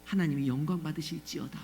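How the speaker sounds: low, hushed, over-composed confession; imitating placid, pious speech; mock pious politeness. Shown as a demonstration. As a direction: voice hardship far too nicely, like a recitation. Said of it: "저한테 그렇게 말씀하시겠어요?".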